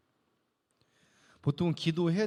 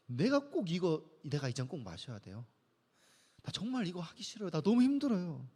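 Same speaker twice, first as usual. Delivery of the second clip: whining to dad; 3 semitones lower than usual. Retold or imitated. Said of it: "투정 부리고 있는 거예요. 떼를 쓰고". (아빠에게 떼쓰다 마지못해 따르는 작은 목소리)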